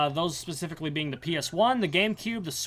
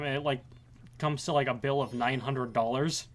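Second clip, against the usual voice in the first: usual speaking voice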